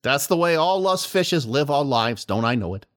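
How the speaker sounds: put-on a flounder drawling in a high southern accent; southern fish voice. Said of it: "he turned southern".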